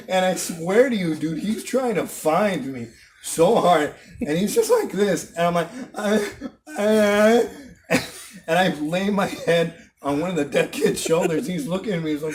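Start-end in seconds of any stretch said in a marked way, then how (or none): 5.9-7.4 imitated short moans; feigned wordless cries.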